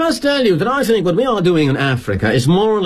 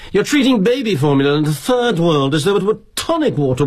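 higher-pitched, outraged British junior's tirade; indignant sputtering; 6 semitones higher than usual. Acted. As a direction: sputter accusations at the boss, pitched up. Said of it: "he sputters like a boiling tuber".

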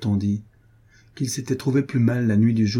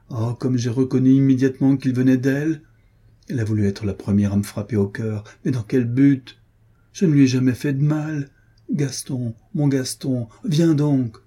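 delirious raving; 4 semitones higher than usual. Acted. Sick duchess raving at Jenny about Gaston, delirious. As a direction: rave as if calling the dead. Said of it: "Elle avait le délire".

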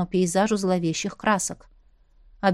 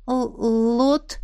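surprised. A narrator's reading. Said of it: "удивилась я".

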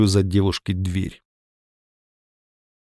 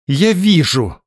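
ordinary talk

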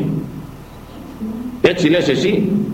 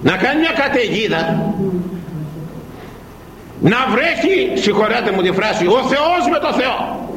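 storm told big; 5 semitones higher than usual. A narrator's reading. Preacher describes violent storm.

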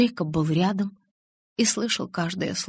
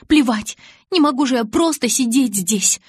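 higher, much louder, frantic; frantic shout; 5 semitones higher, 7 dB louder than usual. A narrator's reading. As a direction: yell it, refusing to stay. Hysterical refusal.

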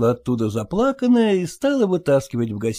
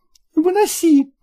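higher, insistent order; wife to the cook, a raised command; shouting; 6 semitones higher than usual. Acted. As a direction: order the cook to carry it out now. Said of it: "крикнула".

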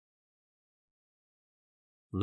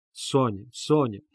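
crying out; 2 semitones higher, 3 dB louder than usual. Acted. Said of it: "кричала".

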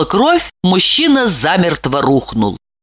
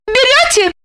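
high pressing question; high insistent ask. A narrator's reading. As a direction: press him. Lipochka presses him.

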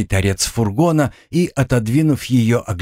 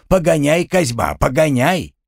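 mock panicked yell; 7 semitones higher than usual. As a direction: mimic his panicked cry to drive on. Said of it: "драпал и кричал". (передразнивая испуганный крик)

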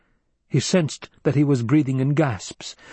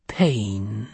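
whispered pain. Acted. Crone answers what's in box.

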